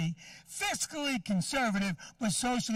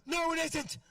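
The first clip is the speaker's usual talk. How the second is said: higher, slower whiny mock of the offended girl; mocking whiny woman; 6 semitones higher, slower than usual. Comic imitating the offended girl in the front row, higher whiny mock. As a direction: nag it out like a prissy heckler. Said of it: "She goes".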